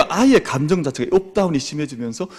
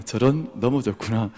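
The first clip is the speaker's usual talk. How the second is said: unhurried "저런. 넘어졌구나." in an easy, steady voice; calm and gentle; 3 semitones lower than usual. Shown as a demonstration. Teacher shows parents how to calmly answer a fall. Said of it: "평안하게 이야기를 건네주는 겁니다".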